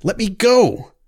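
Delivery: high, loud cry of panic; frightened cry. Acted. Frightened girl screaming at her captor to let go. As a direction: scream it to break free. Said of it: "she cried".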